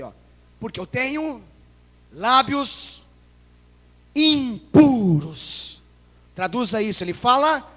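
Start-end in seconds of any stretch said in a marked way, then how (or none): 0.6-5.8 rising louder, very drawn-out "impuros"; anguished confession. Acted. Preacher voicing Isaiah's confession. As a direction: build to a broken shout. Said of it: "a confissão da boca dele".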